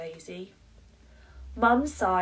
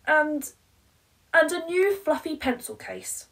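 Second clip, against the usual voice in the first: loud, high, breathless list of bribes; frantic begging mum; 5 semitones higher, 9 dB louder, faster than usual. Acted. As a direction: throw everything at her, close to frantic. Mum bargaining, frantic climax.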